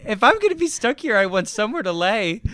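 protesting loudly. Real, not acted. Protesting the hammock gift.

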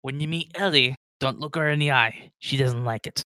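a hint of a Scottish-style dwarf; hearty dwarf. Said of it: "It's like".

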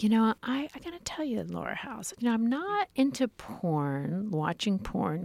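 hushed, mock-seductive purr; sultry Dipsea voice. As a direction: put on your best sexy audio-story voice. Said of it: "in my best Dipsea voice".

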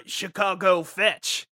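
slow, lightly voiced Big Dog; Big Dog impression. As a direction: drag it out as the dog character, only a hint of a voice. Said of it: "Sorry to do an impression of him".

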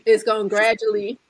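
"gradually" in a thick New Orleans accent; thick home accent. Shown as a demonstration. Speaker showing her accent coming back, thick New Orleans accent. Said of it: "not gradually".

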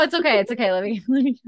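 high, loud it's okay; hurried reassurance. Real, not acted. Telling her friend not to pause for dinner, high and eager. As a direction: brush off the offer, eager.

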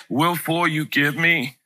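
put-on slow childlike pleading; little kid's mixed-up words. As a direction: gently mimic a small boy's jumbled apology. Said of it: "he used to say".

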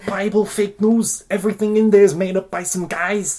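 high, loud mocking voice of a stereotyped believer; mock Christian believer. Host mocks Christians by playing one, loud and high. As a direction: ham up a preachy zealot. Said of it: "Classic Christianity".

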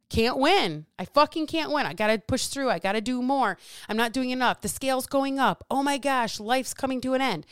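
acted-out frustrated despair; defeated client. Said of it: "that's how she feels".

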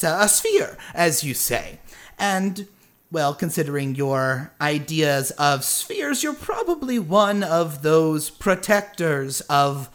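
lightly voiced eccentric boffin, rambling; genial stranger, deducing. Stranger working out who Dale is, rambling and lightly theatrical. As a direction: reason aloud in a lightly folksy character voice.

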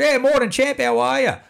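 bright, high, chirpy hello; high sing-song "morning, champ"; cheery greeting. Retold or imitated. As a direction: greet him like an old mate, all upbeat.

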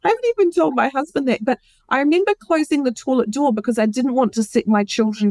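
fast and high, emotion spilling out; breathless emotional confession; emotional rush. Real, not acted. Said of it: "I haven't told anyone that".

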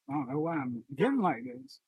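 getting emotional. Real, not acted. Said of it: "I wish you would just let yourself get like this".

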